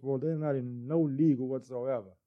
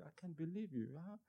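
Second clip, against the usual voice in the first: mild scolding wife; 4 semitones higher, 4 dB quieter than usual. Retold or imitated. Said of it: "she's like".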